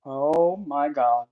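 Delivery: slow, drawn-out amazed exhale; awed gasp. Real, not acted. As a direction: let it out slowly in awe. First sight of her book.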